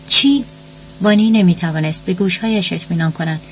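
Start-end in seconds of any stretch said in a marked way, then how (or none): 0.1-0.4 high, startled "what?"; acted shock, pitched well up; shocked question. A narrator's reading. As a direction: react in disbelief to sudden news. Mother shocked by news of death.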